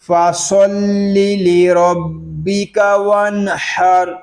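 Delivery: measured tajweed reading of فَصَلِّ لِرَبِّكَ وَانْحَرْ; Quranic recitation. Shown as a demonstration. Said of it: "پوری آیت کو پڑھیں گے". (تجوید کے ساتھ تلاوت)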